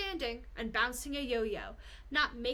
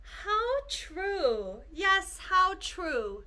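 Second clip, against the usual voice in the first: lightly voiced kangaroo; 4 semitones higher, much slower than usual. Kangaroo agrees.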